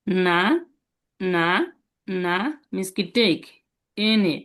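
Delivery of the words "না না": না rising at the end. Shown as a demonstration. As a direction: lift না upward like a question. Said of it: "ন plus আ কি হবে?". (না উঠতি সুরে)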